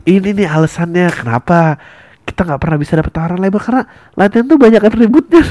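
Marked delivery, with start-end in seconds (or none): 3.6-5.5 breaking up laughing mid-line. Real, not acted. Comedian cracks up acting the band quarrel. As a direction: laugh through the words.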